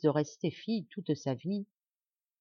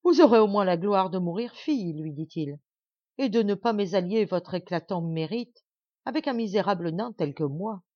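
louder, mocking sneer; disdainful; 4 dB louder than usual. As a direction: sneer down at her. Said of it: "riant dédaigneusement". (nain méprisant et moqueur)

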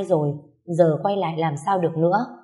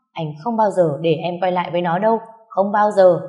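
louder, rising to a roar; furious shout; 4 dB louder than usual. Acted. Hoàn shouting at his wife not to go back, furious. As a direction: bark it at her, possessive. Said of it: "Hoàn điên lên quát".

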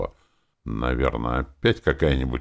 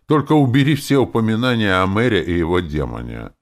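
strict; 5 semitones higher, 6 dB louder than usual. A narrator's reading. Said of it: "заговорил я строго".

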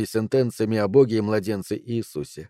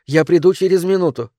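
high, raised call down the hall; calling after; 7 semitones higher, 5 dB louder than usual. A narrator's reading. Mother promising her son she'll come, calling out. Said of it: "крикнула Адель ему вслед".

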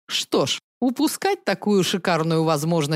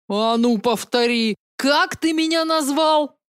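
mock challenge; 6 semitones higher than usual. Staged fight reply.

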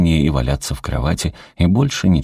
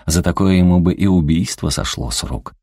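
plain reading voice

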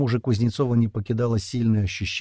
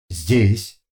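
louder flat machine question; metallic voice; 6 dB louder than usual. A narrator's reading. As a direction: ask it with no emotion. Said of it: "владелец металлического голоса".

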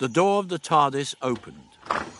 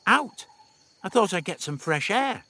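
higher, perky mild defiance; defiant; 7 semitones higher than usual. A narrator's reading. Dodo to Stephen, lightly defiant reply. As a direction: toss the answer off. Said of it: "Dodo replied defiantly".

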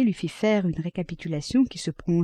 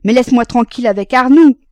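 loud, high-pitched exasperated plea; exasperated lament; 6 semitones higher, 12 dB louder than usual. A narrator's reading. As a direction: wail it, at the end of your patience. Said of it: "lui dit d'une voix lamentable". (plainte excédée, forte et aiguë)

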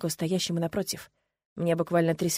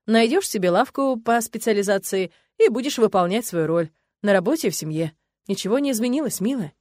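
lightly voiced husband, smug and louder; patronising husband; 3 dB louder than usual. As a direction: talk down to your wife. (снисходительный муж, чуть громче)

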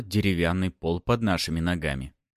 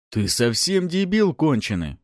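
злой крик; 8 semitones higher, 4 dB louder than usual. A narrator's reading. Bandit yells at mocking captive.

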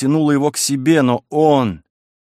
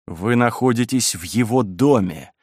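plain reading voice

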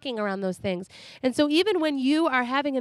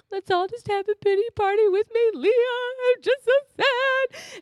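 mock crying dad; 10 semitones higher than usual. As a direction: blubber it in mock self-pity. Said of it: "And he just started crying".

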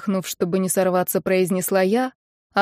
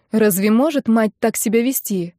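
usual speaking voice

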